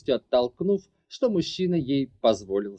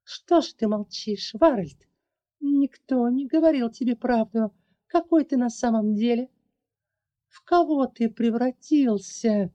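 higher, accusing growl; 10 semitones higher, 3 dB louder than usual. Acted. The girl accusing her former friend, growling. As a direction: snarl the questions at him. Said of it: "рычала девушка".

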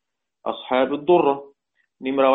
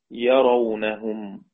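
slow clear word; 3 semitones lower, much slower than usual. Shown as a demonstration. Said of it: "هذه الكلمة المقصود بها".

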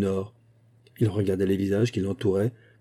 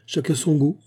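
sneering; 6 semitones higher than usual. A narrator's reading. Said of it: "ricana Mick Inwood".

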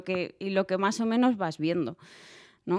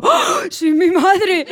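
slow, much higher, louder cry through laughter; laughing dismay; 10 semitones higher, 8 dB louder, much slower than usual. Retold or imitated. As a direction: laugh in horror at yourself. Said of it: "suelto alguna frase y digo".

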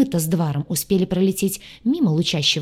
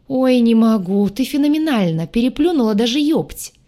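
laughing; 5 semitones higher, 5 dB louder than usual. Acted. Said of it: "заржал и осел на пол".

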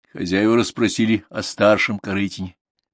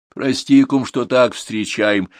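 sighing apology; 4 semitones higher, 3 dB louder, slower than usual. Acted. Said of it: "со вздохом обратилась она".

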